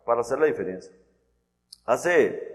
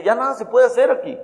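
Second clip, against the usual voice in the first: raised firm voice; 9 semitones higher, 7 dB louder than usual. Retold or imitated. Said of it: "le dice".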